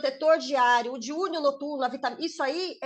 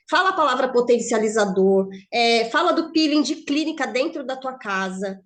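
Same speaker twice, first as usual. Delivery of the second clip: "potencializador" and "peeling de clínica" punched loudly; emphatic key words; 5 dB louder than usual. Shown as a demonstration. Trainer showing consultants which words sell, "potencializador" loud and emphatic. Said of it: "a entonação que você fala".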